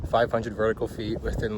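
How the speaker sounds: winded from the climb; out of breath. Real, not acted. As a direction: talk while still catching breath. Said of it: "that's why I'm out of breath".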